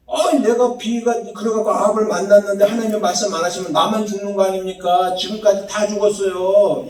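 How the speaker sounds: mildly dramatized complaint; acted emotional protest. Preacher voices Elijah complaining to God, mildly dramatized protest. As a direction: run it on as an understated, acted protest. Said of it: "감정과 그런 분위기를 집어넣으면 이렇게 되는 거야".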